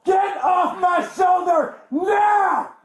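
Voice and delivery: slow furious yell; angry shout. Real, not acted. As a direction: bellow it in real pain. Arrested man yelling at officers.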